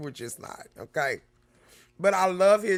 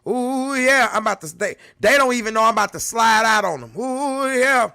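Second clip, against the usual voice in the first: mock Kevin Hart; 2 semitones higher, 5 dB louder than usual. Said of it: "when Kevin Hart say".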